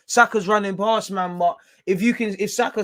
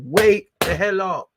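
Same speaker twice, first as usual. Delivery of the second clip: angry yell; 3 semitones higher, 6 dB louder, slower than usual. Real, not acted. Yelling at his struggling team.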